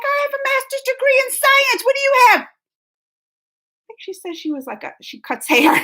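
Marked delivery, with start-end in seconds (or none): 0.1-2.4 higher, sharp indignant comeback; a mock-outraged challenge; retold indignant retort. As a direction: put the hairdresser in her place. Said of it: "I'm like".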